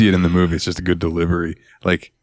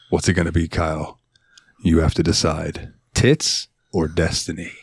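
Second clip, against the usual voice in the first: Jack Black; 4 semitones lower than usual. Acted. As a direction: pose it as a grave choice, lightly acted. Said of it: "Jack looks at Kyle and goes".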